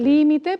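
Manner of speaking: "Límite" with a strong LÍ; stress on first syllable. Shown as a demonstration. Teacher confirming the tonic syllable, stress on LÍ. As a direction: hit LÍ in "Límite". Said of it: "la tónica es la que está primero".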